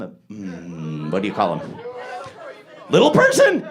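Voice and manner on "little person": high, loud incredulous question; mock outrage. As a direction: fling it back at the crowd in disbelief. Mock outrage at audience's term.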